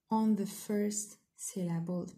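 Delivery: "on the first syllable" said slowly; teacher stressing the rule; slow emphasis. Shown as a demonstration. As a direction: spell it out deliberately. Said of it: "the stress؟".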